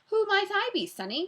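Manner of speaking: put-on high, loud old-granny voice; cackling grandmother. A narrator's reading. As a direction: crack it out like a grandmother. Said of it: "cracked Paul cackled. He sounded like somebody's grandmother".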